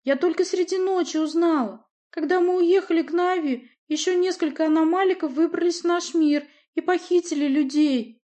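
put-on high girlish voice, shaking with tears; upset girl on the verge of crying; trembling voice. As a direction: hold back tears as you tell it. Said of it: "Голос Нади задрожал".

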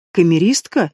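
a shocked, breathy «Камеристка?»; stunned, the word knocked out of him; gasped. A narrator's reading. Brother learning the maid was a spy, gasping. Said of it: "ахнул Рейхан".

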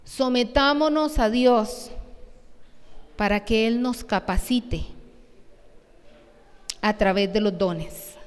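slow, deliberate read of "Sometámonos a Dios"; slow, stressed recitation of the point; slow emphatic reading. Shown as a demonstration. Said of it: "dice el punto tres en las aplicaciones".

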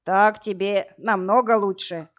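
slow, self-satisfied remark; pleased, slow. Acted. Brute eyeing the woman, slow and smug. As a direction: savour each word, pleased with himself. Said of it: "довольно произнёс".

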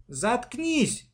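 high, sharp shut-up yell; angry shout. A narrator's reading. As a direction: snap at the whining sister. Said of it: "закричала она".

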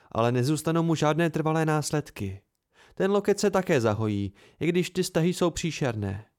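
a hint of a brisk healer reporting; healer Mola. Mola briefs Will and Sim on the injuries, lightly voiced.

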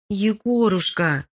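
high drawn-out call across the forest. A narrator's reading. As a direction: call his name from afar, slow. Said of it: "голос позвал его по имени". (зов издалека)

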